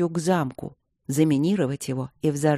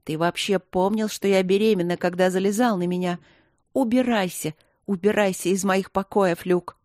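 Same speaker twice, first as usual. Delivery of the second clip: angry; 3 semitones higher than usual. Acted. Marina's hysterical tirade.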